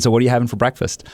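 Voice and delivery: quick, lifted mock-innocent question; sarcastic. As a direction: probe him with light sarcasm. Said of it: "sarcastic line of questioning coming his way".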